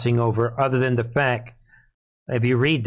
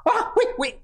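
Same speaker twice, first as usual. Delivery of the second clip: mocking voice. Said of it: "All of a sudden".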